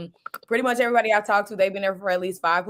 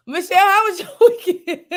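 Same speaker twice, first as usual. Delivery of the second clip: high, loud laughter while speaking; laughing; 12 semitones higher, 6 dB louder than usual. Real, not acted. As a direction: laugh through the question. Laughing fit while asking.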